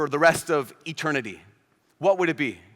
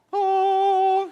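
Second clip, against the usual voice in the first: surprised oh; 14 semitones higher, 3 dB louder than usual. Retold or imitated. Realizing moment in retold scene.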